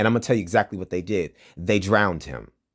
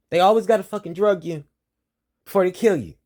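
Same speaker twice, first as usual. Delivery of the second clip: angry rant; 10 semitones higher, 4 dB louder, faster than usual. Real, not acted. Ranting accusation at police.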